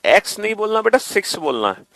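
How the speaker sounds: ordinary talk, nothing marked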